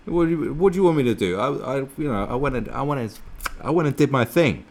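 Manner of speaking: high, loud, stammering defence; heated protest. Acted. Host defending what he did, high exasperated protest. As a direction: argue back in a rising fluster. Heated mock self-justification.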